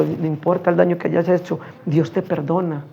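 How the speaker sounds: reassuring. Retold or imitated. Preacher reassures repentant man.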